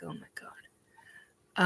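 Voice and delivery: slow, hushed whisper of dismay; voiceless, drawn-out reaction under the breath; retold whisper. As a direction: whisper it slowly, as a stunned aside. Retold shocked reaction, nearly silent.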